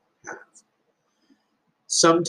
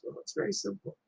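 calm explanation; 2 semitones higher, 4 dB quieter than usual. Retold or imitated. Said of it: "And Buddha goes".

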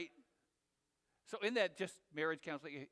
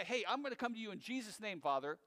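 casual prayer opening; faster than usual. Shown as a demonstration. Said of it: "You can say".

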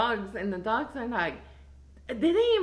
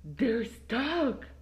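mock freak-out; 5 semitones higher, 3 dB quieter, much slower than usual. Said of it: "I start freaking out".

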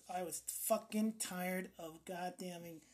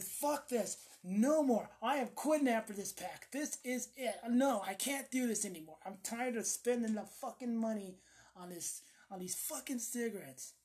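higher, emphatic, exasperated declaration; fed-up vow; 3 semitones higher than usual. Retold or imitated. Smoker swearing off cigarettes, fed up. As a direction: act out being sick of it.

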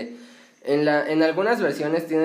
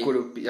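Curupí stressed on the last I, said lower and softer; stress on final syllable; 6 semitones lower, 5 dB quieter than usual. Real, not acted. Co-host confirming the name, Curupí stressed on final I. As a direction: quietly repeat "Curupí", accent on pí. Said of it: "con acento en la I".

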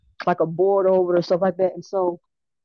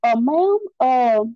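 polite officer voice, pitched higher with hesitant uhs; imitating the police caller; 5 semitones higher than usual. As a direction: play the careful officer on the phone asking, lightly voiced. Caller from police asks about purse.

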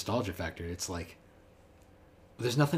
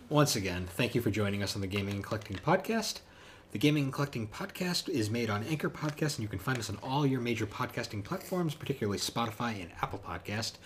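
upbeat host sign-off; podcast outro; 3 semitones higher than usual. Acted. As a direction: wrap up like a radio host.

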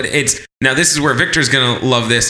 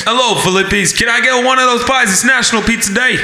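higher-pitched mock phone customer; pizzeria caller; 6 semitones higher than usual. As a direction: play at ordering pizza by phone. Acts out customer phoning pizzeria.

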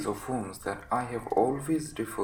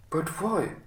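high-pitched, puzzled question; baffled protest; 6 semitones higher, 4 dB louder than usual. Acted. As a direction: protest in hurt surprise. Rebuffed doctor protests.

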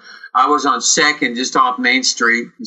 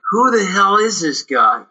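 higher, marvelling who-is-this; like meeting someone larger than life; amazed disbelief; 6 semitones higher than usual. Retold or imitated. Telling the interviewer about first meeting Bill, amazed.

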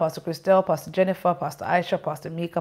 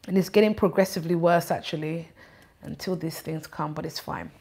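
lisping; 3 semitones lower, 6 dB quieter than usual. Real, not acted. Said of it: "I'm gonna be lisping".

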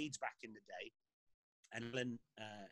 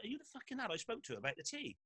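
higher, indignant, hammed-up; mock angry Clough; 9 semitones higher than usual. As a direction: boss losing patience, lightly acted. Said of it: "And he's now pissed off".

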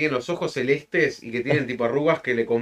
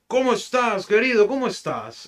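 put-on higher, friendly old man greeting; 7 semitones higher than usual. Old man André greeting the census taker, lightly voiced. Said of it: "medio Gaspi el tono de voz".

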